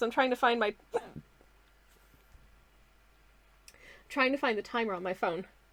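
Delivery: hiccuping while talking. Looking for the phone timer while talking with hiccups. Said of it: "I've got hiccups".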